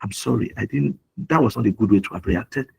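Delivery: low, softened admission; retold apology. Father owning up to his children after snapping, subdued and apologetic.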